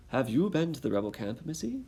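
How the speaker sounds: a hint of a British soldier questioning. British redcoat questioning Dicey on the road, light British accent. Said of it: "I need to come up with a British voice".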